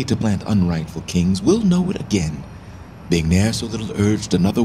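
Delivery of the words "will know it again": rising bitter cry. Acted. Richard warning Northumberland.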